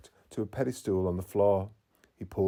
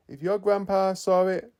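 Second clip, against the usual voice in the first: high, louder, keen reasoning; eager; 9 semitones higher, 6 dB louder than usual. Acted. Ash excitedly telling Mateo the Onix is near, eager. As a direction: push the idea with energy.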